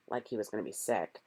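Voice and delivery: soft unvoiced aside; narrator's hushed aside; whispered aside. A narrator's reading. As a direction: whisper it to the listener.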